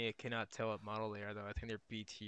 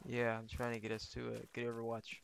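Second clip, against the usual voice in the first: whispering. Real, not acted. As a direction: whisper so nobody hears. Sneaking, replying in a whisper.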